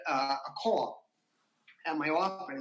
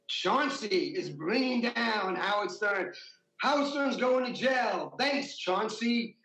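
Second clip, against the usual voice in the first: mock headline shout; 3 semitones higher, slower than usual. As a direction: bellow it like a newsboy hawking the front page. Reading a tabloid headline aloud.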